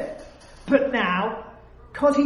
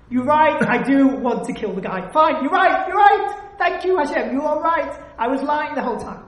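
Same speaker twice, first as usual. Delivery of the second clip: hammed-up confession to Hashem; imitated outburst of admission; 3 semitones higher, 4 dB louder than usual. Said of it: "I finally have to admit".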